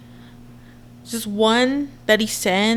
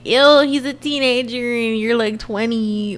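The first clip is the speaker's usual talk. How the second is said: mimicking scolding commenters, slowing at the end; mock disgusted commenters. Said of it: "y'all are gonna be like".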